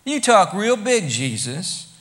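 mildly jeering challenge; mocking abuse. First group taunting Jesus about the temple, mildly mocking. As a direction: needle him, doubting his power. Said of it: "they hurled abuse".

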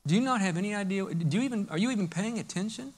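a believer in crisis asking God why he's silent; hurt complaint to God. Acted. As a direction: plead quietly, feeling abandoned. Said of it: "the natural response oftentimes is".

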